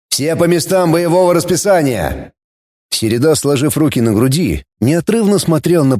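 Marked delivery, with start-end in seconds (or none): 0.1-2.3 shouted order. Acted. Battle alarm on ship deck.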